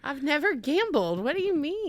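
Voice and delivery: high, swooping feigned innocence; mock innocent denial. Guest asked about gambling, playfully innocent denial. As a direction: deny it playfully, pitch climbing.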